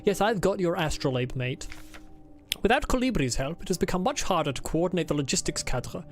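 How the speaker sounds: a lightly put-on formal diary accent; Adler's put-on accent. Streamer reading Adler's diary aloud, lightly put-on accent. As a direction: read it as the stiff diarist, with only a hint of accent. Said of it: "Why do you think I'm doing this accent for him?".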